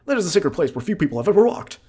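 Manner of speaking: mysterious forest guide reading his lines; high NPC voice. Acted. Voicing forest NPC dialogue.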